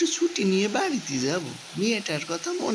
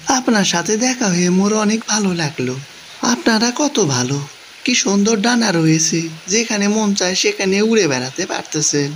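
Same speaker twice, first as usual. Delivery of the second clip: louder, eager praise; delighted greeting; 8 dB louder than usual. Acted. Man meeting a winged fairy, loud and delighted. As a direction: gush to the fairy.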